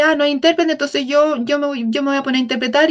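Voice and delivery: mock careless interpreter. Lecturer mocking an unprepared interpreter, in a light, rushed mock voice. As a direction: toss it off like someone who can't be bothered to prepare. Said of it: "No se trata de que".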